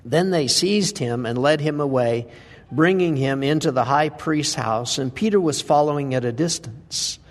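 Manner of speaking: measured, solemn reading of the Gospel passage; scripture reading. Acted. Preacher reading the denial story aloud to the congregation, solemn. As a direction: read the passage with calm weight.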